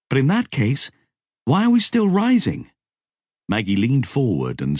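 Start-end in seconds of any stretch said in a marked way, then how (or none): 0.1-2.7 higher, louder baffled question; puzzled question. A narrator's reading. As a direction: ask it in disbelief.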